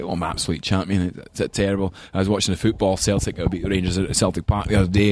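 imitated Glaswegian grandfather; strong Glaswegian accent. Grandfather on a Sunday phone call to his grandson, strong Glaswegian accent. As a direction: put on a thick Glasgow accent. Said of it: "had a really strong Glaswegian accent".

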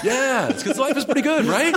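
high, laid-back Hulk; mellow Hulk voice. Pretend. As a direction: keep the chill Hulk going. Continuing the mellow Hulk bit.

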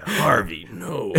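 mock-dramatic drawn-out plea; anguished Batman. Host deciding whether to exercise, mock-anguished. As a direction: imitate the anguished cry, hammed up. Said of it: "I'll do my very best to im-, impersonate this moment".

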